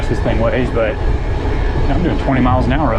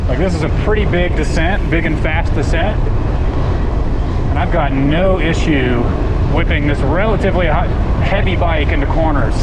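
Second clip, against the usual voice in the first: raised voice over rushing wind; shouting over wind; 3 semitones higher, 4 dB louder than usual. Real, not acted. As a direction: call out over the wind noise. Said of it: "In case you weren't able to hear me on the downhill section over the wind noise".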